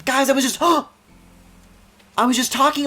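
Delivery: high, loud gasping excitement; thrilled disbelief. Real, not acted. Player spotting a shooting star, gasping with excitement. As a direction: squeal it, can't believe it's happening.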